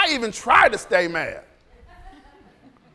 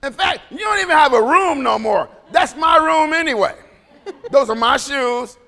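loud, laughing mock scolding; hammed-up angry parent; half-laughing parent rant at a child; 4 dB louder than usual.

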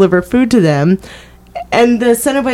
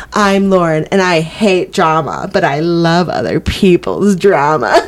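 reality show tagline; 2 semitones lower than usual. Pretend. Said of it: "my, like, thing would be like".

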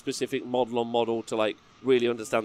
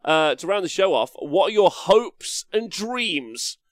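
slow, higher show announcer; 5 semitones higher, slower than usual. Pretend. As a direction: stretch it out like a host. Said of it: "my announcer voice one more time".

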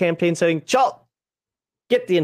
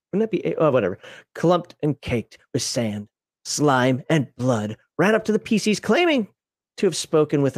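dramatic story narration; 3 semitones lower than usual. Acted. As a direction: read it like a dark tale. Reads the module's backstory.

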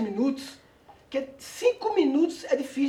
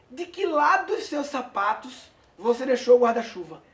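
parable reading; 2 semitones higher than usual. A narrator's reading. Reads a written parable aloud.

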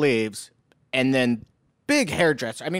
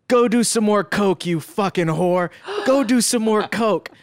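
mock yelling at the boyfriend, pitched up; angry shout; 5 semitones higher than usual. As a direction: snap it at him like an insult. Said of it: "my hairdresser's like".

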